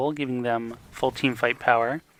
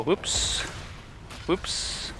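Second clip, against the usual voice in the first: whispered; 4 semitones higher, 8 dB quieter than usual. Real, not acted. Player leaves the game.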